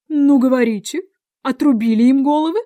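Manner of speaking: loud, high demand; shouted question. A narrator's reading. Queen questions her soldiers, shouting. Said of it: "крикнула королева".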